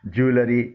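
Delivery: ज्वेलरी said as "JOO-luh-ree"; wrong-way ज्वेलरी, "ju-la-ri"; common mispronunciation. Shown as a demonstration. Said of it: "कई तरीक़ों से गलत बोला जाता है".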